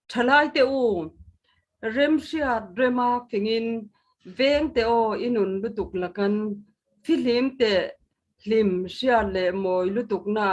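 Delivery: slow, measured poetry recital; poem recitation. Acted. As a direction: recite each line with weight and pauses. Poet recites own poem.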